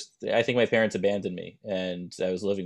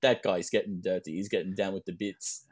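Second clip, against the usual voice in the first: bad British accent; 3 dB quieter than usual. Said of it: "That was pathetic accent work by me".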